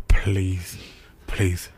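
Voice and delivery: low, drawn-out begging; retold begging, each please on its own. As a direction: plead with heavy, low-voiced earnestness. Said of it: "I literally begged her".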